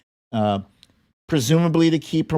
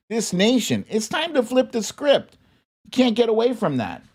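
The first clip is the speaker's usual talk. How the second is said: higher, fast, emphatic paraphrase of the president; a hint of Biden laying down the law; lightly voiced Biden; 5 semitones higher than usual. Vlogger quoting Biden on taxes, lightly emphatic.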